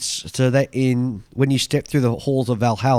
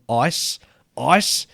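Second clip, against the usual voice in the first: put-on Edinburgh accent; 4 semitones higher, 4 dB louder than usual. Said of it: "said in a broad Edinburgh accent".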